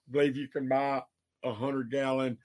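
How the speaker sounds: talking through the hiccups; hiccupy, interrupted breath. Real, not acted. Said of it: "excuse me, I have the hiccups".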